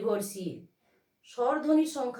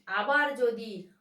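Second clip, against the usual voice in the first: আবার with the first syllable আ hit hard, said slowly; stress on আবার; slower than usual. Shown as a demonstration. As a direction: lean on the opening আ of আবার. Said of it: "আয়ের উপরে দেখো ঝোঁক পড়েছে".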